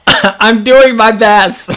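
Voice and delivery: slow, high laugh through the words; laughing apology for mangling a name. Real, not acted. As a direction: giggle at her own fumbling. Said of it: "I'm terrible at sounding things out".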